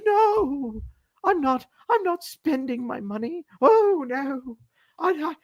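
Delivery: very high-pitched, hammed-up protest of innocence; mock denial. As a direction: deny it all in a silly, high put-on voice. Mimics rich people hiding their wealth.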